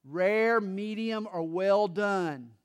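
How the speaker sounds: mildly sarcastic wife, drawing out the last words; mock-servile question with understated sarcasm. Wife complaining about doing everything asks her husband, mildly sarcastic. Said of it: "sarcastically, she said".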